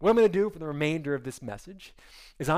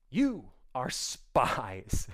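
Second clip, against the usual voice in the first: drawn-out, ominous "You are spies"; slow menacing accusation; 3 semitones lower, much slower than usual. Shown as a demonstration. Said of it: "Okay, he goes".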